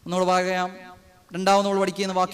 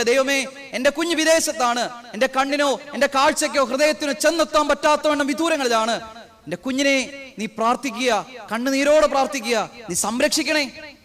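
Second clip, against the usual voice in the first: mother's prayer; 3 semitones higher than usual. Retold or imitated. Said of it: "അമ്മ നെഞ്ചുരുക്കി പ്രാർത്ഥിക്കുക".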